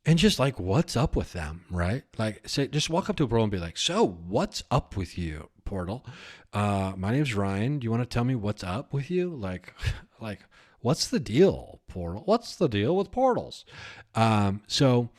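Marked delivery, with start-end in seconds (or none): 3.8-13.7 lightly voiced stand-up comic questioning; hint of observational-comic lilt, rising on the punchline; Seinfeld. Host quizzing a portal, light Seinfeld-style delivery. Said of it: "Paranormal Seinfeld".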